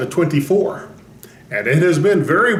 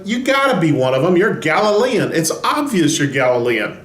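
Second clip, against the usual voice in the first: accusing crowd; 2 semitones higher than usual. Acted. Crowd confronts Peter, acted quote.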